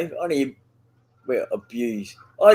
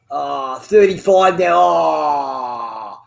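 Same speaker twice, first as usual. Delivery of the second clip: slow, shouted groan at the number; drawn-out shout; 4 semitones lower, much slower than usual. Real, not acted. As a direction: let the number out as a long annoyed shout. Reacting to a ping reading.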